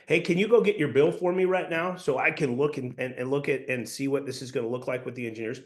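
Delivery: "Hey, can you go get" lifted with curious energy; inquisitive. Shown as a demonstration. Salesperson asking a homeowner for "your bill", inquisitive. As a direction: ask with a slight upward inflection on "go get your bill". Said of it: "slight upward inflection, inquisitive energy".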